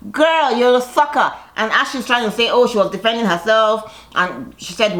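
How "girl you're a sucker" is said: sassy put-down. Retold or imitated. Mocking aside to Ashley.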